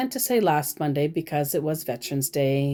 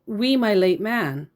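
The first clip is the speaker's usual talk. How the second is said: reading her odd phrasing; 4 semitones higher than usual. Retold or imitated. Reading the woman's message: read as written. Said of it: "and she said".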